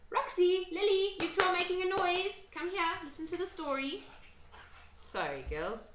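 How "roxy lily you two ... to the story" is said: high, loud call to come and listen; real raised-voice call, pitched up. Real, not acted. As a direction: break off reading to summon noisy listeners. Calling noisy ones to listen.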